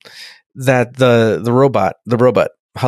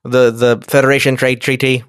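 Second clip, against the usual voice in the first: stiff Amidala voice. Shown as a demonstration. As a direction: recite like a stiff queen. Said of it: "that's Amidala".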